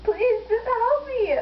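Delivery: slow pleading half cry; begging. Real, not acted. Begging a friend for help, half crying. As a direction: plead through the pain.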